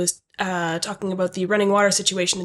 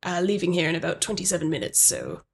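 lightly voiced, softer manager; a hint of a reserved manager introducing themselves; manager character; 5 semitones lower, 4 dB quieter than usual. Plays the manager Pat.

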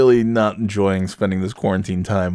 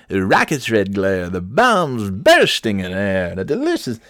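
mock announcer. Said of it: "pretending that I was a baseball announcer".

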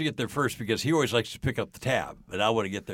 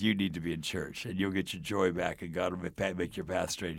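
low, softer, steady counsel; calm reassurance; 6 semitones lower, 6 dB quieter than usual. Retold or imitated. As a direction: answer his outburst with quiet assurance. Calmly counsels the excited driver.

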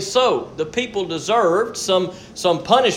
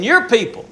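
"Your" lifted higher, then falling on "people"; stress on YOUR; 5 semitones higher than usual. Retold or imitated. God pinning the people on Moses, stress on "Your". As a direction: lean on "Your" to disown the people. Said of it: "here we have God saying".

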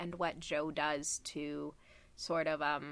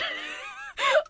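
real squealing laugh mixed with crying; high tearful laugh; 6 dB louder than usual. Real, not acted. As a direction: breaks into a teary laugh. Overcome while telling the story.

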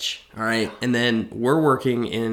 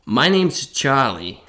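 put-on New York-Boston accent; 2 semitones higher, 6 dB louder, slower than usual. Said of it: "Boston accent".

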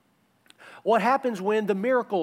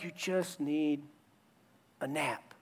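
patient parent; 3 semitones lower, 9 dB quieter, slower than usual. Retold or imitated. Parent reasoning with overtired toddler.

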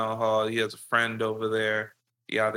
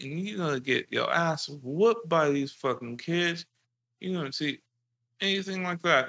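lightly raised mock dad voice; a hint of the gloating father; 6 semitones higher than usual. Dad telling his kid he's going to jail, mild mock voice. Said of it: "he's like".

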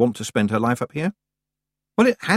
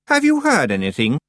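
higher-pitched urgent demand; 6 semitones higher, 4 dB louder than usual. A narrator's reading. Young witch confronting Tiffany, demanding. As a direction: demand an answer at once. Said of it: "she demanded".

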